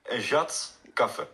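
slow, far-off plat Flemish jat kaffe; broad Flemish dialect. Shown as a demonstration. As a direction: repeat it slowly in plat Flemish. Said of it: "zeggen wij een jat kaffe".

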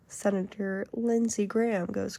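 ordinary talk

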